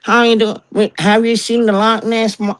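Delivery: high, slow, over-friendly tourist voice; hammed-up American tourist greeting; mimicking tourists. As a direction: greet like an eager visitor hunting a monster. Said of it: "you get the".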